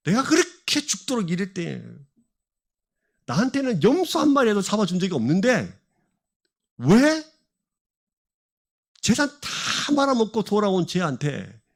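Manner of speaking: acted-out grievance, mildly heated; retold resentful complaint, broken by pauses; indignant older son. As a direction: protest the unfairness, with a punched 왜. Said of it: "아버지가 열받는 거예요".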